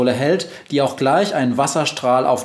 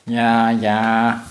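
even, monotone robot assent; robot Globus. Acted. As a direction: concede in a machine voice.

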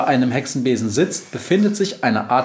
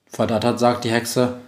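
usual speaking voice

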